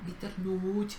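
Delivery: Viternuch with a slow, drawn-out u; overdone long vowel in Viternuch; exaggerated long syllable. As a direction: stretch the u of Viternuch. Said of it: "ahí lo exageraste un poquito".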